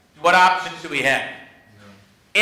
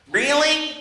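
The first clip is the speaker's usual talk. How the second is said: high, drawn-out mock surprise; playful fake curiosity; feigned interest; 7 semitones higher than usual. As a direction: act fascinated to stall. Feigned interest probing partner.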